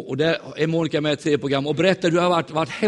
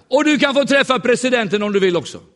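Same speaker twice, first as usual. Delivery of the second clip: higher, louder eager offer; excited quote; 8 semitones higher, 6 dB louder than usual. Retold or imitated. Visitor tells preacher he may meet president, excited. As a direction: pitch it up with excitement. Quoting Azerbaijani man's offer.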